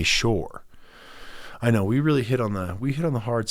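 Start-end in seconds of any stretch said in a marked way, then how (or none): 0.0-0.6 falling "sure". Shown as a demonstration. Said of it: "or do you say".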